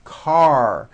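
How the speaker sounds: car ending on a firm pulled-back R; strong final R. Shown as a demonstration. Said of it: "Your tongue has to pull back".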